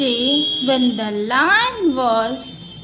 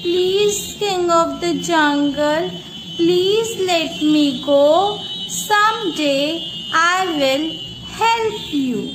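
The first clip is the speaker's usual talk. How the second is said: pleading mouse; 2 semitones higher, faster than usual. Acted.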